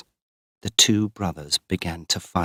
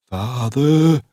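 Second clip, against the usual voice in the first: loud, higher cry for father; shouted; 6 semitones higher, 6 dB louder than usual. Acted. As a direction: shout it across the fields. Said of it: "he shouted in his great deep voice".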